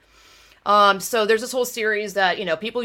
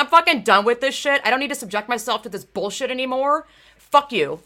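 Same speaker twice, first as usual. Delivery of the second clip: fed-up quitting; 2 semitones higher than usual. Retold or imitated. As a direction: slam the door on racing. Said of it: "So I'm like".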